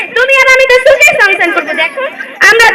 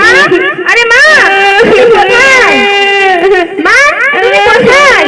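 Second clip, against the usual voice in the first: crying out for mother. Acted. Son searching for missing mother.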